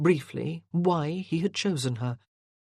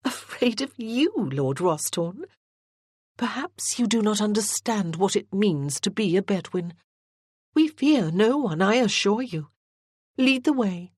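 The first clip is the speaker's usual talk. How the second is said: put-on higher, bristling young lady insisting she fears nothing; a proud girl rising to a dare, pitched higher; indignant young lady; 5 semitones higher, 3 dB louder than usual. A narrator's reading. Morgan rising to Rosthorn's challenge, proud and indignant, higher voice.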